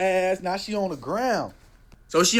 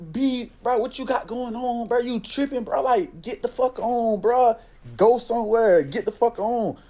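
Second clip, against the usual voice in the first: raised, higher retold telling off, getting heated; angry telling off; 6 semitones higher than usual. Man to woman kicking his car, heated retold telling off. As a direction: tell her to get lost, heated.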